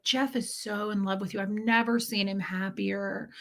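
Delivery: softly delivered, ingratiating flattery; mild smarmy reassurance; sugarcoating. Retold or imitated. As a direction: imitate a man smoothing things over, softly. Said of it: "he's sugarcoating it".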